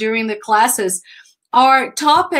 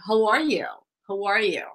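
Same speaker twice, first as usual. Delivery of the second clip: "How are you?" falling, softer each time; falling intonation; 3 semitones lower, 6 dB quieter than usual. Shown as a demonstration. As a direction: let "How are you?" fall away gently.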